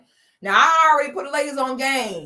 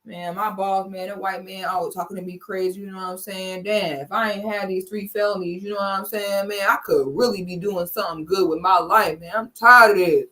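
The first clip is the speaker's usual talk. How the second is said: mock sulking man; 5 semitones lower than usual. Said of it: "they'll act so sad".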